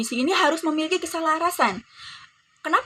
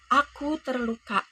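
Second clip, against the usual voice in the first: slow, soft "Aku terluka" with no push; weak, sad stress; 4 dB quieter, slower than usual. Shown as a demonstration. Teacher to pupils, a soft, hurt "Aku terluka". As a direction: let "Aku terluka" sag like a wound. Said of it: "tekanan yang lemah".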